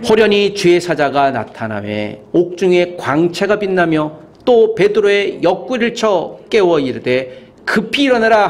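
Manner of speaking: slow, measured recitation; scripture reading aloud. Real, not acted. Preacher leading the congregation through verse seven, slow recitation. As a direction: read the verse out in deliberate phrases.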